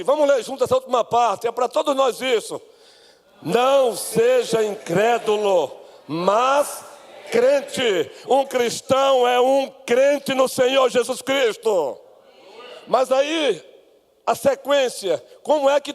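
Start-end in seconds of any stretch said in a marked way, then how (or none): 3.4-12.0 slow, ringing proclamation; full-force preaching. Acted. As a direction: preach it out with drawn-out stressed words. (pregação inflamada, lenta e proclamada)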